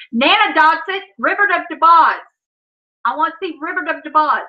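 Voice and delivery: "River of the Boss" garbled, d for th; insistent small child's "Nana Dotson", d for g; toddler mispronunciation. Retold or imitated. Toddler demanding her film, insistent baby talk. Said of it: "when she was learning to talk".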